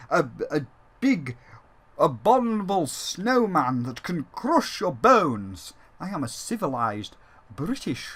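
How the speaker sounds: a hint of a genteel British yeti in a mock posh British accent. Retelling how Bentley talked in the original, in a lightly posh British accent. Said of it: "Bentley had a British accent".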